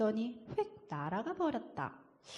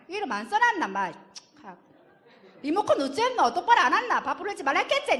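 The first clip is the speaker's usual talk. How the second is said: put-on loud Busan dad scolding the child nonstop; nagging dad; 6 dB louder than usual. Father nagging his child about chores, scolding loudly. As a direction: rattle off the chores like a fed-up father.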